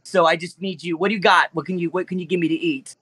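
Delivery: lightly voiced whiny T-Rex; Jewish T-Rex voice. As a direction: explain the family like a fussy T-Rex. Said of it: "Wasn't expecting you to really sound like that".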